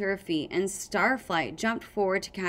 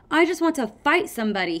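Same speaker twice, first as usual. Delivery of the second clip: fast, high, eager burst; 7 semitones higher, 6 dB louder, much faster than usual. A narrator's reading. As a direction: blurt it out, itching to fight. Clay restless, wants to fight.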